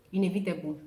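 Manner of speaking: inevitable as "in-EV-i-tuh-bul", no table; teacher's inevitable; correct inevitable. Shown as a demonstration. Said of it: "There is no table in that word".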